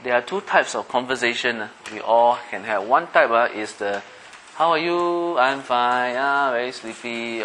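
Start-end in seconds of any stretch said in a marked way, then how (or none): 4.6-7.4 light small talk. Shown as a demonstration. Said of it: "Can you sense a difference in the tone?".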